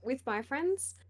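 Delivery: hoarse, strained voice; losing voice. Real, not acted. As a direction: talk through a failing voice. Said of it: "I'm losing my voice".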